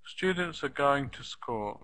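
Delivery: beats on STU, GO and school, "are" and "to" squeezed; natural sentence stress. Shown as a demonstration. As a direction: model Students are going to school with weak "are" and "to". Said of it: "Try saying it like I say it".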